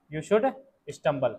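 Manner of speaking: slow dictation. Shown as a demonstration. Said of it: "teacher dictates sentence slowly".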